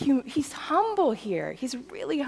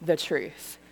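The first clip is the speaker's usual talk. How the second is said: slow, lower growled movie line; Jack Nicholson impression; 3 semitones lower, slower than usual. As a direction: do a slow, heavy tough-guy film delivery. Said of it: "in my best Jack Nicholson voice".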